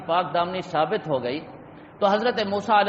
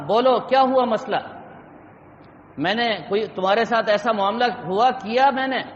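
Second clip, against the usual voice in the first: mildly stern, raised questioning; retold angry demand. Prophet confronts the summoned woman, retold mild anger. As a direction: demand an answer with a touch of anger. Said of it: "غصے سے دیکھا".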